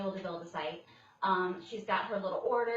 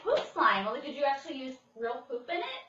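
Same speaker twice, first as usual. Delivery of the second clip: incredulous; 5 semitones higher, 5 dB louder than usual. Retold or imitated. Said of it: "I'm like".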